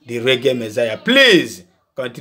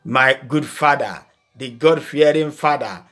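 put-on polite flattering child; 3 semitones lower than usual. Humble son flattering his father before asking, lightly voiced. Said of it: "he will come to you".

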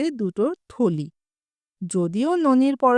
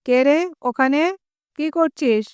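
higher, sharp demand of a stranger; stern challenge; 4 semitones higher than usual. Acted. Noni challenges the unknown mason at the window, stern. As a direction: call out sternly, mildly raised. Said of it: "কড়া গলায় বলে".

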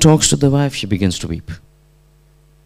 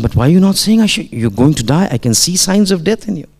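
higher, questioning lift at the ends; retold puzzled pleading; 5 semitones higher than usual. Teacher questioning his dying student, puzzled pleading. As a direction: plead for an answer, baffled.

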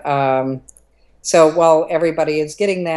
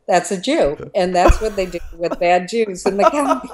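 higher voice, breaking into laughter; laughing retold line; 4 semitones higher than usual. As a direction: quote the child while starting to crack up.

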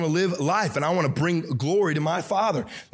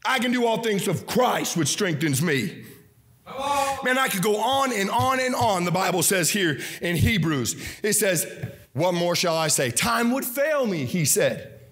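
full-force preaching. Acted. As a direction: preach it out to the congregation.

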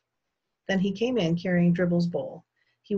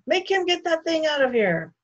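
loud, high indignant bellow; booming; 11 semitones higher, 6 dB louder than usual. A narrator's reading. Guest orders the turtle removed, booming. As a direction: boom out the order. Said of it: "Mister Yarby boomed".

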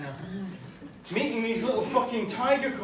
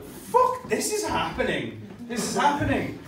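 dawning shock; 5 semitones higher than usual. Retold or imitated. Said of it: "I was like".

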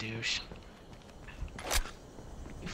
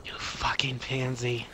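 whispered insult; 4 dB quieter, slower than usual. Real, not acted. Insults opponent under breath.

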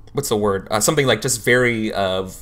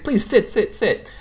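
higher, rushed insistence; hasty; 12 semitones higher than usual. Acted. Counselor rushing the student to sit, high and hasty. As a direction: hurry them into the chair. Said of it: "hastily manner".

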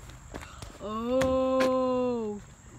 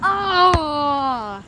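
excited cry; 3 semitones higher, 9 dB louder than usual. Real, not acted. Friend reacting to a trick shot, excited cry.

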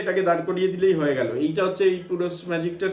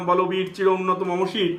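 slow, recited like a poem; recited poem line. Retold or imitated. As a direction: declaim the verse slowly. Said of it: "বলছিলাম".

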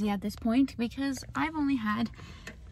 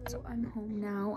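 soft whispered update; whispering on arriving home; 2 semitones lower, 6 dB quieter than usual. Real, not acted. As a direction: say it under the breath.

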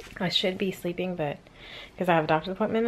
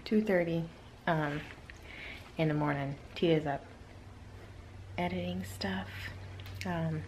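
whispering; 2 semitones lower, 5 dB quieter than usual. Real, not acted. Talking at 2am while others sleep.

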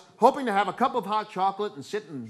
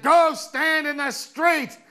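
high, loud, slow drawn-out mock menace; hammed-up monstrous order, every word stretched; menacing neighbor voice; 9 semitones higher, 5 dB louder, slower than usual. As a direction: play her as a looming terror. Monstrous neighbor's daughter orders him.

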